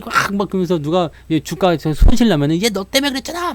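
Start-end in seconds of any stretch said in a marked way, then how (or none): 2.6-3.5 high, hammed-up accusing whine; mock blaming. A losing trader blaming someone nearby, mock whiny accusation. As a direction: blame someone else for your loss.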